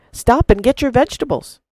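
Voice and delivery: put-on high, loud call to the boy; a farmer calling to the running boy, high and loud. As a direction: call after him. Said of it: "cried the farmer".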